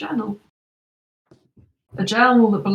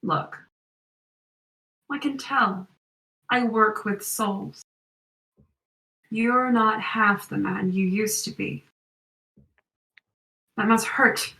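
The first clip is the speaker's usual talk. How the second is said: put-on American accent. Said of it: "it's American accent".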